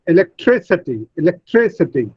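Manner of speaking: "electricity" said e-lec-TRI-city; stress on third syllable. Shown as a demonstration. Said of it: "tree receives the primary stress".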